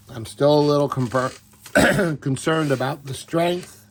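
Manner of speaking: hoarse, strained voice; raspy whisper. Real, not acted. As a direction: voice giving out from allergies. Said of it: "Sorry, I'm losing my voice".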